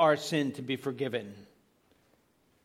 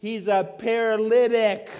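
higher and louder, with paralytic stressed; mock crowd insistence; 7 semitones higher, 9 dB louder than usual. Bystanders telling Jesus the obvious, a mock exasperated insistence.

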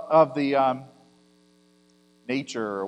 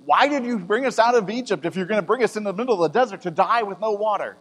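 higher accusing complaint; the crowd accuses Moses in the desert, higher and complaining; complaining Israelites; 4 semitones higher than usual. Acted. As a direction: throw the blame at Moses. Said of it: "I could almost hear the complaints".

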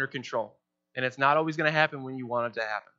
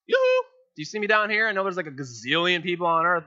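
mock impatient prayer; 3 semitones higher than usual. Praying impatiently to God.

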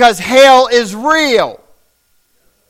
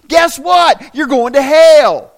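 preaching shout; slower than usual. Real, not acted. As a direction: hammer the word "hell" home. Preacher warning the congregation.

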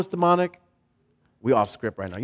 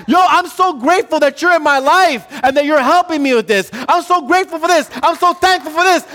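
lightly raised, eager "Yo, you are so gifted"; excited praise; 5 semitones higher than usual. Acted. Preacher voicing a churchgoer praising a gifted brother, eager and grateful. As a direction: gush with grateful joy over a brother's gift. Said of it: "look at our brothers and sisters and say".

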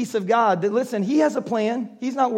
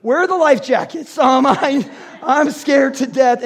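alarmed; 3 semitones higher, 5 dB louder, slower than usual. Retold or imitated. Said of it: "I'm going".

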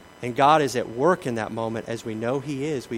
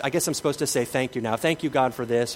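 fake thanks. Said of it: "It would seem fake".

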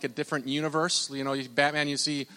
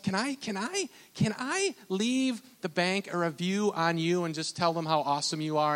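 high, eager client voice, lightly put on; a happy customer begging to leave a review; eager client asking; 4 semitones higher than usual. Client asks the banker to post a review, high and eager. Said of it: "she's like".

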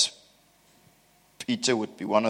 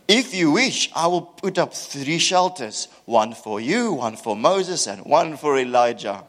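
higher, lightly voiced keen disciple; eager Peter; 3 semitones higher, 3 dB louder than usual. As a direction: blurt it out like an overeager helper. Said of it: "Peter, with his big mouth, said".

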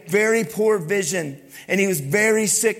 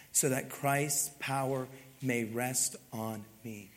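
soft, slow scripture reading; 5 semitones lower, 6 dB quieter than usual. Acted. Reading God's answer to Paul.

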